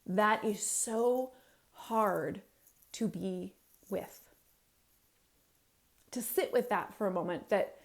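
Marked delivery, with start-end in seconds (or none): none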